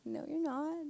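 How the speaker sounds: retold disbelief. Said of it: "I'm just like".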